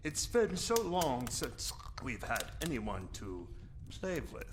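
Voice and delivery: creepy host fading to a hiss; sinister vampire. Acted. Vampire coaxing the boy to join the card game, sinister. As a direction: lure him in, trailing to a whisper.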